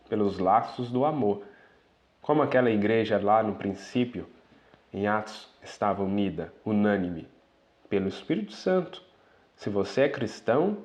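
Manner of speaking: ordinary delivery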